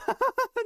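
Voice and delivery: high laugh. Real, not acted. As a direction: crack up in disbelief. Short shares at zero.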